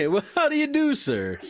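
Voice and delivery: high, sugary mock courtesy; mock polite. Greeting the postal police in a mock-sweet high voice. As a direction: play the overly polite employee.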